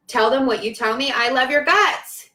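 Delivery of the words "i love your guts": gushing love. Real, not acted. Gushing affection at a friend.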